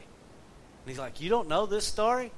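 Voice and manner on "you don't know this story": higher-pitched incredulous question; mild retold surprise. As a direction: imitate someone taken aback, pitch lifted. Retold teacher taken aback by listeners.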